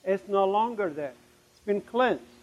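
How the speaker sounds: soft, retold gentle reply; heart's quiet answer. Heart answering the alarmed brain, soft voice. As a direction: answer softly after the outcry. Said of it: "my heart is saying".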